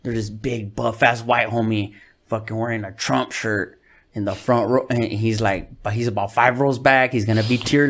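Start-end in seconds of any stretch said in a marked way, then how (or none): 0.0-4.9 lightly voiced host, lower and softer; a hint of the host warning him backstage; imitating the host. Host in the green room tipping off the comic, low and hushed. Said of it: "he goes".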